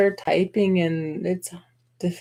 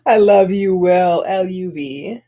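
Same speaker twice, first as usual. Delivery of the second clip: gushing I love you; 6 dB louder than usual. Pretend. Playful declaration to the chat.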